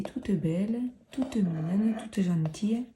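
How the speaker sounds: a hint of a southern French accent; lightly drawn southern French lilt. Shown as a demonstration. Une pointe d'accent du sud. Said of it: "je prends l'accent du sud quand je dis ça".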